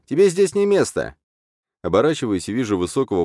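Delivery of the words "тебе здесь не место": high squeaky jeer; squeaky bully jeering at the newcomer; squeaky taunt. A narrator's reading.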